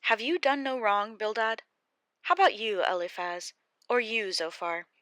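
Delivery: loud, hurt rebuke of friends; angry Job. Acted. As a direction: turn on the friends who blame him.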